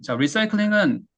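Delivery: ordinary talk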